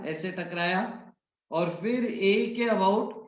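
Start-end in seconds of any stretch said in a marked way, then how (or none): 1.5-3.2 drawn out slowly, rising at the end; slowed explanation. Shown as a demonstration. Teacher to students, slowing to show the pivot. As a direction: stretch it out to show the turn. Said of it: "slowing to show rotation".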